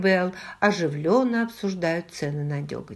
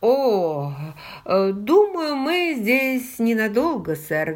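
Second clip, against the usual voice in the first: hesitant, higher-pitched polite reply; deferential, raised pitch settling at the end; 3 semitones higher, 4 dB louder, slower than usual. A narrator's reading. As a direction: start with a stalling "oh, er", then answer courteously. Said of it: "вежливо ответил Уильям".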